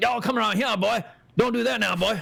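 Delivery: put-on Bayou-sounding accent. Acting out how he talks on seeing Southern dudes in Louisiana, in a put-on Bayou accent. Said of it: "he'll start speaking with a Bayou accent".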